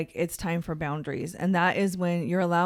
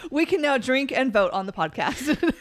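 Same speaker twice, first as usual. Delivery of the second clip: giggling through the words; high laughing joke; 4 semitones higher than usual. Real, not acted. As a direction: laugh as you say it.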